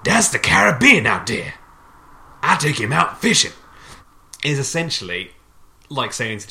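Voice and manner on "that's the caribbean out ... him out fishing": loud, high Caribbean accent impression of Quarrel. Podcast host mocks Quarrel's belligerent answer, in a loud hammed-up Caribbean accent. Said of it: "I'm gonna do the accent".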